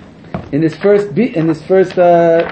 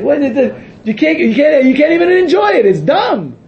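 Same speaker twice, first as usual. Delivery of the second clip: indignant rant; 5 semitones higher than usual. Real, not acted. Indignant rant about forbidden room.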